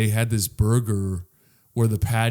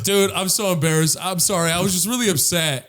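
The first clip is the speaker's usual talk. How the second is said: higher, louder mock-sheepish drunk; drunk guy apologizing; 5 semitones higher, 4 dB louder than usual. Drunk customer apologizing to the employee, embarrassed. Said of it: "He's fucking drunk as fuck".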